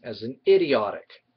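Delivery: idiotic with the -otic ending punched; stress on -otic. Shown as a demonstration. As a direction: lean hard on the -otic of idiotic. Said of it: "I might emphasize the word eotic".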